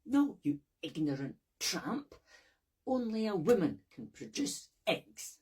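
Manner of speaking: furious loud rebuttal; angry retort. Acted. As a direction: shout down the old man.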